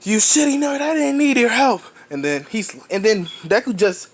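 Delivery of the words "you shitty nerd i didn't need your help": high, mocking rival snarl; Bakugo. Bakugo sneering at Deku after being saved. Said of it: "Bakugo's all like".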